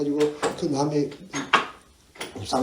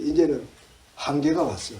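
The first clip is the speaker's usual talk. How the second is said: usual speaking voice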